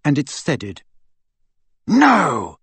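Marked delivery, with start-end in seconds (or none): 1.9-2.6 high, urgent protest; shout. A narrator's reading. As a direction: shout to stop someone. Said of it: "shouted Malfoy".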